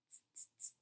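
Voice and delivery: soft, voiceless "tss" noises; monkey chatter. A narrator's reading. Monkeys answering the peddler back, soft hissy chatter. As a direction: tut softly like teasing monkeys. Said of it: "monkeys only shook their fingers at him and said".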